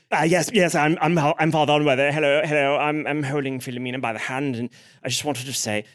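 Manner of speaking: lightly voiced fussy clergyman; hesitant, repetitive greeting to a crowd; a hint of doddery priest; Father Unworthy. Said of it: "Father Unworthy goes".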